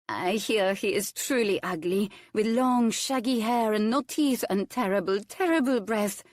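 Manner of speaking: a gossiping guest savoring a pirate rumor, mock-shivering; shuddering delight. A narrator's reading. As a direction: relish the gruesome rumor with a mild thrill. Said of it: "one shuddered deliciously".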